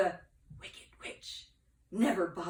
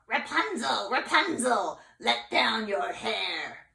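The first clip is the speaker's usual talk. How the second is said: witch calling out; 3 semitones higher, 7 dB louder, slower than usual. Acted. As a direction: call up to the window, then slow down. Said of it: "calling out".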